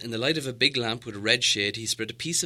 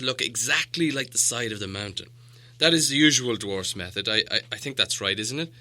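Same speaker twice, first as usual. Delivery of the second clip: the wizard reasoning, a little louder; patient wizard; 5 dB louder than usual. Acted. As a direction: calmly explain why Smaug can't fit. Gandalf explains the door.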